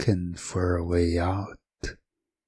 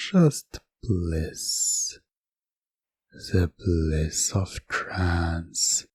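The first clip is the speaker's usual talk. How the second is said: hypnotic voice; slower than usual. Acted. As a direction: pull them under, slowly. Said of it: "and a voice saying".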